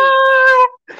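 high, loud "Ah!" as if bursting into tears; reenacted tearful scream. Comedian retelling her reaction to Tom's video, tearful scream. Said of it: "Eu comecei a chorar".

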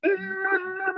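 high, sustained warrior cry; mild warrior roar. Shown as a demonstration. Guest voicing her warrior goddess energy with a cry. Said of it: "earth warrior empress".

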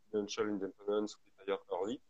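English words said with a light French accent; French speaker reading English terms aloud. Real, not acted. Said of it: "désolé pour mon accent anglais". (anglais avec un léger accent français)

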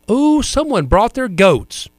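put-on high, slow, old Southern lady voice; deadpan old grandma, drawn out; grandmother's quip. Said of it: "looked out and said".

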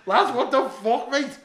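high, loud imitation of a panicking mate; retold scream. Mate alarmed at him being stuck, mock screaming. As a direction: shout it high and drawn out, acting it out. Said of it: "but he's screaming at me".

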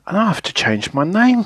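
high, mildly tearful wail; sobbing. A narrator's reading. Little Miss Giggles despairs over her lost giggle, mock sobbing. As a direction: wail it in a storybook mock sob. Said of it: "she sobbed".

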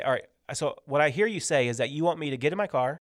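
measured, condescending read-back; patronizing check of an instruction, stressed piece by piece. Acted. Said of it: "That sounds condescending".

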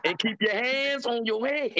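drawn-out, hammed-up warning; film line re-enactment. Quoting a movie threat to a co-host, slow mock warning. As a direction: stretch each word slowly into a mock order. Acting out a film police stop.

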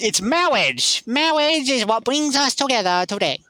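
put-on Mexican accent. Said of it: "Please say marriage in that accent".

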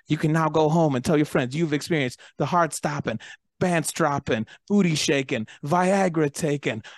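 building up to a huge shout; Bruce stage shout. Retold or imitated. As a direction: hype the crowd, rising into a roar. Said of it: "I love when Bruce goes".

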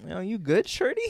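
a light imitation of a Toronto guy's accent, shorty jumping up high; mocking a guy asking if I'm good; Toronto accent with a high rise on shorty. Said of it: "He was like".

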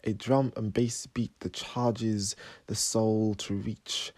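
measured, slightly soft poem recital; poetry reading. Acted. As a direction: recite your own poem with pauses between phrases. Reads own poem aloud.

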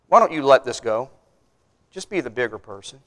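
low, soft counsel, easing down; gentle appeal. Retold or imitated. Pastor to mature Christian about a baby Christian, gently coaxing. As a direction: coax softly, as if settling a quarrel.

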